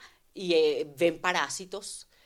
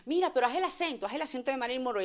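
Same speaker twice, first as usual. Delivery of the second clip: mock demanding voice; 6 semitones higher, faster than usual. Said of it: "cuando le dicen".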